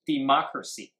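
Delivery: democracy with MOC as the stressed syllable; word stress demo. Shown as a demonstration. English teacher quizzing students on word stress, stressing MOC. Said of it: "重音放在哪里".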